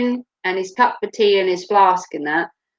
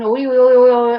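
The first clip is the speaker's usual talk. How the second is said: Norfolk farmer noise; 5 dB louder than usual. Retold or imitated. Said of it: "he's like".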